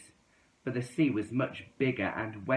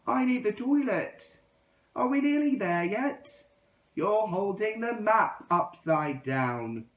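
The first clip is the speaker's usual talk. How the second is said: put-on high, loud squabbling kids; childish road-trip voices; 11 semitones higher, 4 dB louder than usual. A narrator's reading. The friends bickering while driving, high and whiny. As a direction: whine like restless kids in the car.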